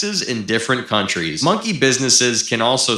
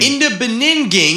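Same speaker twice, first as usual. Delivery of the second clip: higher, louder silly mangled "Beninging"; garbled high voice; 12 semitones higher, 3 dB louder than usual. Shown as a demonstration. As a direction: trip over "Beninging" in a goofy voice. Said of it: "in the Beninging".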